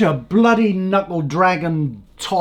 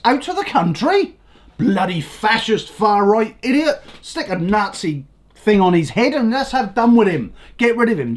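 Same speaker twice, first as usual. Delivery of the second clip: mocking his critics; 3 semitones higher than usual. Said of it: "they're now gone".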